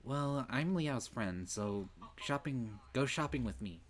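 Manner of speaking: lightly voiced senpai begging to shop; insisting Senpai. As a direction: drag it out, demanding.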